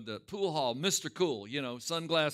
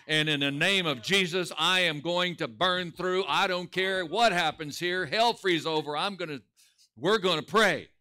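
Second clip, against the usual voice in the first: forceful, louder preaching push; determined declaration; 4 dB louder than usual. Acted. Preacher voicing a vow to God to burn through, determined. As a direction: declare it with stubborn resolve. Acting out a defiant prayer to God.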